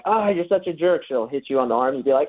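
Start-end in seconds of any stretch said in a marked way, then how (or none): 0.0-1.0 lightly voiced frustrated woman, pitched up; mock frustration. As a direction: imitate a mildly frustrated date. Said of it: "She usually gets frustrated".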